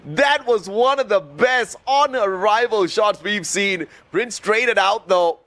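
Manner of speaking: lively play-by-play call; esports caster. Acted. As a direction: cast it live and upbeat. Live play-by-play casting.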